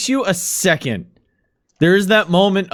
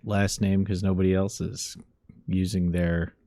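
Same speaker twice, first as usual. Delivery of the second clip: lightly voiced nervous clerk; hesitant, apologetic phone call; apologetic morgue clerk; 4 semitones lower than usual.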